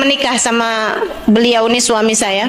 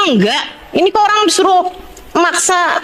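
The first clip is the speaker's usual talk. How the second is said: mild exasperated denial, higher and quick; retold protest; 5 semitones higher than usual. Wife denies memorising Quran to insistent husband, retold protest. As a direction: lightly re-enact a pestered wife protesting.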